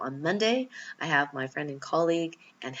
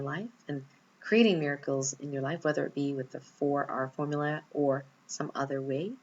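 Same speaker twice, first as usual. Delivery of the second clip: right in your ear. Acted. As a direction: guide them gently into stillness. Leads a healing meditation.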